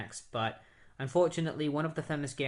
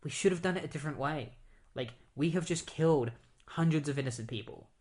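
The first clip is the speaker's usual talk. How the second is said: higher, indignant retold outburst; half-acted scolding, pitch raised; mock-furious hero demanding answers; angry Diana; 4 semitones higher than usual. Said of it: "she gets really mad".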